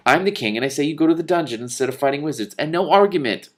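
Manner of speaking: loud firm command; kingly order. A narrator's reading. The king orders the prince to the dungeon, firm. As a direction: lay down the law like a dad.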